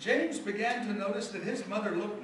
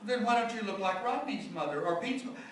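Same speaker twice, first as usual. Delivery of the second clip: put-on higher, fast boy's pressing questions; a young boy pressing his mother for answers; child pressing; 6 semitones higher than usual. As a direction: push the question like an insistent little boy.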